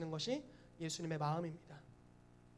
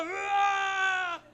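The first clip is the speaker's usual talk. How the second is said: long, high-pitched scream of rage; hammed-up fury howl; enraged roar; 12 semitones higher, 12 dB louder, much slower than usual. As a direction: explode in a drawn-out yell. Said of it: "호통과 막 열불에다가".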